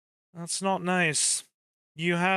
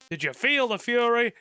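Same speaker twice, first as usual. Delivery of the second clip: lightly mocked battle taunt, higher; imitating game voice line; 6 semitones higher than usual. Streamer joking about a missed curry, playful mock taunt. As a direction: reuse the catchphrase in a playful imitation. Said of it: "just the way he said it".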